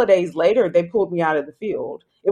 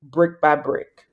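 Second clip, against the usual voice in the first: God's voice; 2 semitones lower, slower than usual. Retold or imitated. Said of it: "I heard God say".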